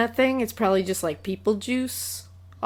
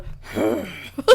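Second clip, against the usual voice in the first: snorting bull. Retold or imitated. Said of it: "bulls just walk around going".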